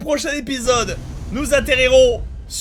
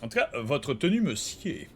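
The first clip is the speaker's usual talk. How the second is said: soft, lower read, stifling laughter; trying not to laugh; 8 semitones lower, 9 dB quieter than usual. Acted. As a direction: hold back a giggle. Reads dialogue option, laughing.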